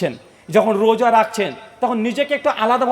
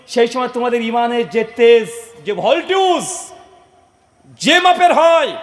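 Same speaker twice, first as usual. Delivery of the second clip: building preaching fervour; 4 dB louder than usual. Acted. The Prophet describing his companions' strength of faith, building fervour. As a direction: build phrase by phrase to a ringing cry.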